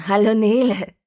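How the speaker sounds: a mother's sunny, upbeat hello; bright mom on the phone, far too cheerful for seven; cheerful greeting. Acted. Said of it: "so gut gelaunt".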